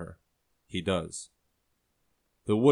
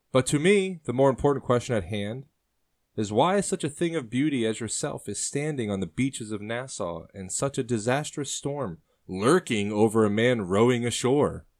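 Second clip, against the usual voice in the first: higher, louder flirting sailor voice; charming sailor; 4 semitones higher, 3 dB louder than usual. Acted. Sailor flirts with the woman on the beach, louder. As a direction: turn the question back on her with charm.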